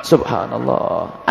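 slow, soft subhanallah; hushed awe. Real, not acted. Ustadz recalling a child nearly dying, slow hushed dismay. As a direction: breathe it out slowly in dismay.

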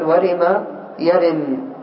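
each syllable of ورم يرم drawn out very slowly; teacher stretching ورم يرم; slow syllable demo. Shown as a demonstration. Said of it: "قد يقول قائل".

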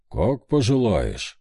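slow creaky grudging reply. Acted. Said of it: "скрипучим голосом сказал он".

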